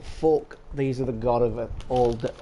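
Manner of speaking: talking while crunching crisps; words through a mouthful of crisps; crunching chips. Real, not acted. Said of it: "sorry for the crunching".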